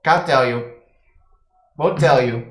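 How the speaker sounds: fast, fearful refusal then begging; frightened kobold. Acted. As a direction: gabble it out, then plead.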